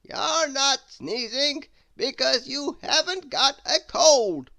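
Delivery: a booming storybook wizard; wise old wizard. Acted. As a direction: speak as a grand wizard from behind. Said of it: "a voice behind him replied".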